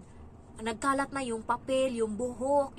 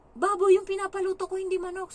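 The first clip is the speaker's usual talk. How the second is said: much higher, much louder accusing retort; angry scolding; 8 semitones higher, 9 dB louder than usual. Retold or imitated. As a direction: snap at the helper for cooking the wrong meat. Employer scolding over wrong dish.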